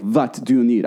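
put-on Russian accent with hard v for w; imitated Russian accent. Host repeating the star's question, mock Russian accent. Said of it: "that's like a Russian accent".

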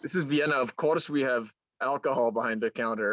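badly faked Russian-sounding accent; unclear, Russian-ish accent. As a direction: play a local with a muddled Russian accent. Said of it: "I don't know what that accent was".

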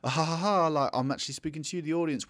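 mock a self-aware wink at the audience; tongue-in-cheek. Film character speaking to the audience, tongue-in-cheek. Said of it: "tongue-in-cheek way that's like".

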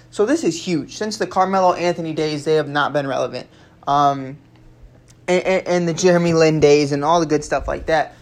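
talking with stitches in the mouth; words slurred around fresh stitches. Real, not acted. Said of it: "I still have stitches in my mouth".

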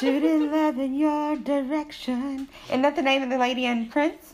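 muffled by gauze in mouth. Real, not acted. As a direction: talk through a mouthful of gauze. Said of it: "you sound all muffled".

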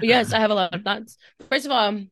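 talking around gummy bears; chewing while speaking; mouth full. Real, not acted. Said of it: "sorry, I'm eating gummy bears".

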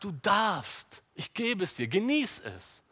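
lightly voiced God, pitched high; God granting permission. Preacher voices God giving the trees freely, lightly acted granting voice. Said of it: "Gott sagt".

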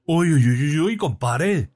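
put-on high, loud drunken hooting; loud exclamation. A narrator's reading. Drunk heckling the sermon to his pal, loud high exclamation. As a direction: hoot it out high and drawn out. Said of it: "exclamó en voz alta Bayonetas".

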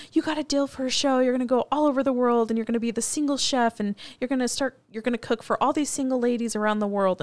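lightly acted hype, quick pace; excited manager. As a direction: rattle it off like big news. Acts out manager pitching the deal.

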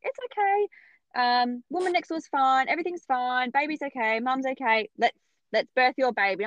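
cool and collected, smooth it over; calm reassurance. Retold or imitated. Obstetrician back from next door, breezy and calm.

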